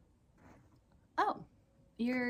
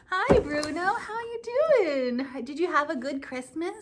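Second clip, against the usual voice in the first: high, louder, stretched hello to a puppy; excited greeting; 6 semitones higher, 5 dB louder than usual. Acted. Pastor greeting the puppet Bruno in front of the children, high delighted hello. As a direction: greet him like an eager child greeting a pet.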